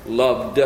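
single out "Loved" as the past tense; stress on loved. Shown as a demonstration. Preacher isolates the word loved for his class. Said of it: "it's in the past tense".

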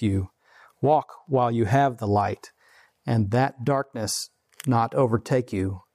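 reading the Bible to the congregation; scripture reading. Acted. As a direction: read the passage plainly and solemnly. Reads scripture aloud.

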